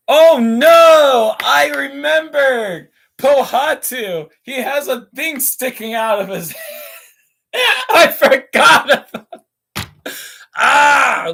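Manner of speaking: mock panic over a forgotten figure; excited alarm. Real, not acted. Suddenly remembers a Lego figure.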